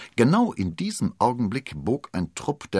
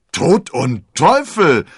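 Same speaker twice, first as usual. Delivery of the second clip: startled oath; 9 semitones higher, 14 dB louder, much slower than usual. Acted. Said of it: "entfuhr es ihnen".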